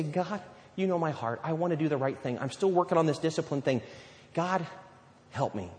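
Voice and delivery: soft, earnest plea to God; humble prayer. Acted. Struggling believer asking God for help, humble prayer. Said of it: "You just say".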